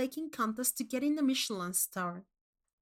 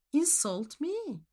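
higher, slow and insistent; insistent repeat; 6 semitones higher, slower than usual. Acted. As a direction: spell it out, leaning on me. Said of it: "I repeated".

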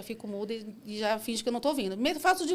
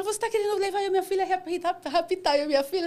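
high-pitched retold accusation; accusing passenger; 9 semitones higher, 3 dB louder than usual. Passenger accuses the driver of kidnapping her and daughter, accusing. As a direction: act out an alarmed, accusing passenger.

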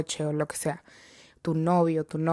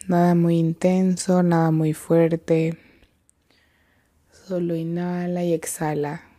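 measured meditation guide with long pauses; guided meditation. Real, not acted. Guide leading listeners to breathe and come to the present, unhurried meditation voice. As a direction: lead them gently into the breath, leaving long silences.

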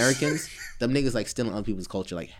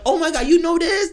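high mock exclamation; 7 dB louder than usual. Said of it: "I'm like".

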